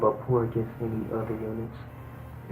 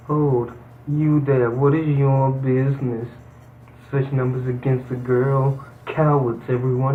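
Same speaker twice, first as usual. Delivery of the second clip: calling out; 4 dB louder than usual. Acted. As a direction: challenge them from afar. Knight calls out to ruffians.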